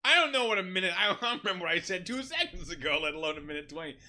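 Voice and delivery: high, loud protest easing down; mock outburst; exasperated. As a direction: exclaim it high and loud, then settle. Funny retort acted out in alarm.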